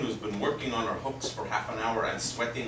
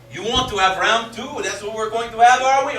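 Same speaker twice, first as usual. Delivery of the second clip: combative taunt; 8 semitones higher, 8 dB louder than usual. Acted. Squaring up for round two.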